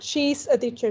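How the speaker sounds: "She's" with its S clearly sounded; audible final S. Shown as a demonstration. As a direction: voice the ending of "She's" before "a teacher". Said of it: "Don't forget the S out here".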